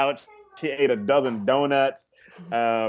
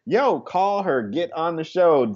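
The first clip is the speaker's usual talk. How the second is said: higher, insistent pep talk; urging a friend; 5 semitones higher than usual. Retold or imitated. Comic telling his friend to call about the show, urging. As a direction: push a pal to act, pitched up.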